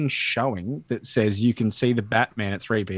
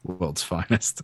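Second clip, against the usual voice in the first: low Batman line; 5 semitones lower, 4 dB quieter, much slower than usual. Retold or imitated. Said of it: "the idea that he'd say".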